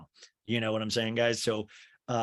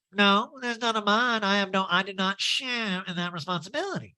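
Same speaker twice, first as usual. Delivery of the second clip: high nasal impression; pinched, put-on denial; mock defensive high voice; Erica Jane; 8 semitones higher than usual. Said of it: "that Erica Jane imitation".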